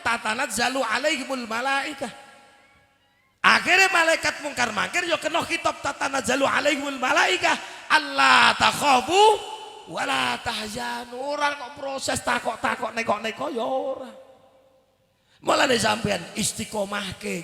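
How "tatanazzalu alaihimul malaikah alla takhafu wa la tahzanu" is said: loud, emphatic Arabic recitation; proclaimed verse. Acted.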